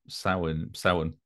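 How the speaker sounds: "Samhain" as SOW-un, weak ending; reduced pronunciation. Shown as a demonstration. Cohost testing the ending to himself, reduced pronunciation. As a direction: say "Samhain" softly as SOW-un, no ain. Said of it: "but it's not in Samhain".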